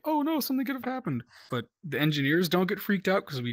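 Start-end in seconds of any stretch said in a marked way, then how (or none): 0.1-1.2 high, fast mock fretting; mocking panic. Engineer mocking crewmates who panic, fast high mock fretting. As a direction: parody the worriers. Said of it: "'cause it's like".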